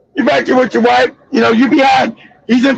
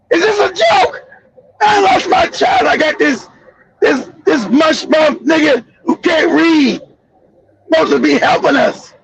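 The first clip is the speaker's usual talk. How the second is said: outraged father; 2 semitones higher than usual. Retold or imitated. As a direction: rant in hurt disbelief.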